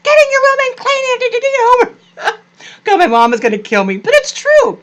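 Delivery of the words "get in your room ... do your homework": high sing-song greeting turning into quick orders; sweet first, then bark out the chores; mock sweet then strict mom. Imitating her own mother, sweet then bossy. Her mom's two voices contrasted.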